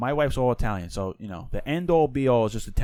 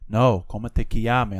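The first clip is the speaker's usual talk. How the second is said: slower, louder retold correction; insistent correction; 5 dB louder, slower than usual. Wife teaching husband Italian, insistently correcting. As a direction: imitate a teacher insisting on the phrase.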